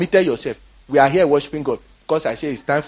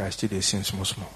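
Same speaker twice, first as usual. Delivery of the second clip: Nigerian Pidgin; 7 semitones lower, 10 dB quieter than usual. Retold or imitated.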